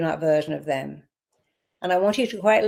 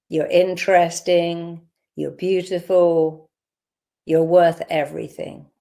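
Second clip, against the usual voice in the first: slow affirmation. Shown as a demonstration. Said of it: "I want you to say now".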